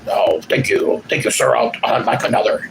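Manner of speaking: breathy, meek thank-you while being spanked; mock grateful victim. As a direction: play the grovelling paddled man.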